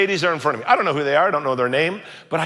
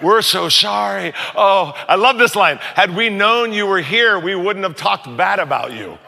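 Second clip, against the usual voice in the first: mock apology. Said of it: "here comes the apologies".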